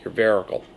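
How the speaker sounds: "vericle" said with an R in place of the H; grandma's "vericle" with an R. Retold or imitated. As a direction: imitate grandma saying "vericle". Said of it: "as my grandmother used to say".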